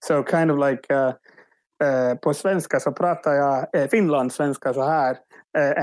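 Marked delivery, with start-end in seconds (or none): 2.1-5.2 Swedish spoken with a Finnish accent. Shown as a demonstration. Improviser showing colleagues an accent trick, Finnish-accented Swedish. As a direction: demonstrate Finland-Swedish intonation. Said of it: "started speaking Swedish with a Finnish accent".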